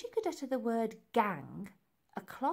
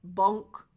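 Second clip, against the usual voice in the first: short, loud bonk; abrupt, punched sound effect; impact sound word; 8 dB louder than usual. A narrator's reading. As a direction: hit it like a blow landing. Narrator voices blow to head.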